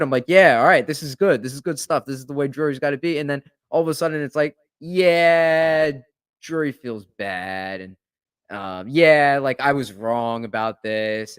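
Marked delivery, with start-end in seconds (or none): 0.3-3.2 quick, upbeat mock agreement; eager run of approval. Acting out being on board. 4.8-11.4 drawn-out "yeah", then slowing down; long hedging yeah, sinking into a slow admission; mock backtracking. Acting out a backtracking reporter.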